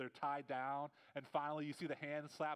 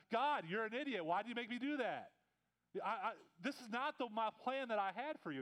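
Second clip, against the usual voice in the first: higher and pushed, a hammed-up gripe at God; exasperated complaint; 5 semitones higher than usual. Moses storms back to God, mock frustrated rant. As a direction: vent at God like a frustrated kid.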